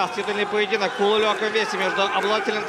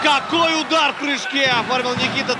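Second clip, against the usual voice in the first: excited commentary; 4 semitones higher than usual. Real, not acted. Flying kick commentary.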